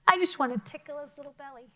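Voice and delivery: fast, giggly fond talk; giggling, cooing. Real, not acted. Teacher gushing over the cute toad with the class. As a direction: laugh at how cute he is.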